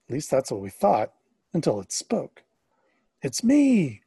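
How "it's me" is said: called out high and loud across the water; Jesus calling across the waves at night. Acted. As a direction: call out to the boat from afar. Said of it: "called a familiar voice".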